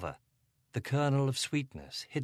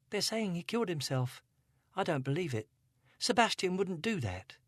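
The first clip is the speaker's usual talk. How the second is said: put-on higher, upset young girl voice; Angela, a hint of upset teen; teenage girl; 9 semitones higher than usual. A narrator's reading. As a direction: voice her as a troubled teenage girl. Teen girl's voice in narration.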